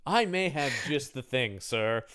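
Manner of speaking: soft, sly shopkeeper voice; sly clerk. Retold or imitated. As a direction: purr it like a creepy clerk.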